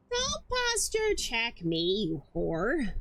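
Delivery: mock scolding. Scolding chat jokingly.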